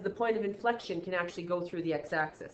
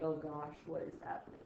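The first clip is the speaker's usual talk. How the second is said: softer, whispered mock panic; overwhelmed student; 4 semitones lower, 9 dB quieter than usual. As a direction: breathe it out like a lost student. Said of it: "And you're like".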